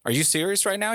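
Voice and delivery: incredulous. Retold or imitated. Visitor asked to show the cat, incredulous. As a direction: throw it back in disbelief. Acted disbelief in neighbor quarrel.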